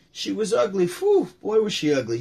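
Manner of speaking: high, loud with a whistling whew; Rodney filler line. Retold or imitated. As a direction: stall for laughs like a comic. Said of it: "And so he uses the".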